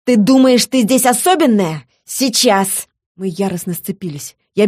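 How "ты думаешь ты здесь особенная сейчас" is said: loud, angry snarl; loud challenge to a rival. A narrator's reading. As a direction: snarl it as a threat mid-attack. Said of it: "бросилась на меня с рыком".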